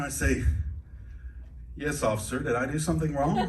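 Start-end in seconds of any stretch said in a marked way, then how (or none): 1.8-3.4 lightly put-on white American accent; careful white-speak accent for a police officer. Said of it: "go into white speak mode".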